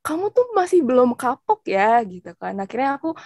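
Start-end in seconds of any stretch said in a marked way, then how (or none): 0.0-2.0 imitated dad's warning, raised in pitch. Papa reacting to the repeated piercing request, mock warning. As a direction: scold lightly in a higher voice, as a retold parent. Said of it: "langsung kayak awas gitu kan".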